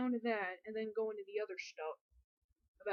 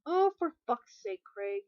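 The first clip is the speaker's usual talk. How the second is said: exasperated; 7 dB louder, slower than usual. Acted. Exasperated character line.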